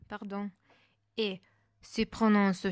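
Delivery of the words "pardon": usual speaking voice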